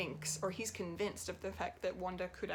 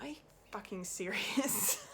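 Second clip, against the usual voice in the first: whispered disbelief; incredulous whisper. Retold or imitated. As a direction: hush it out, stunned. Her reaction while watching.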